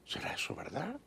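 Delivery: hushed, doubtful whispered question; whispered aside. Real, not acted. Host questioning Trump's cookie-tin claim, whispered aside. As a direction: drop to a whisper as you question it.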